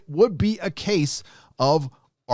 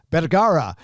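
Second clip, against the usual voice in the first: careful name; 2 semitones higher than usual. Shown as a demonstration. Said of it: "say this name very slowly".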